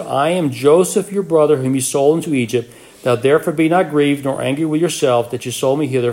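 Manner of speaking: scripture reading. Acted. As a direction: read the passage out to the class with conviction. Reads scripture passage aloud.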